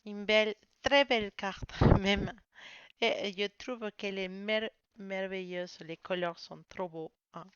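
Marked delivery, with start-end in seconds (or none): 0.0-5.8 louder, laughing with delight; thrilled reveal. Real, not acted. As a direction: gush over the beautiful card. Delighted by the drawn card.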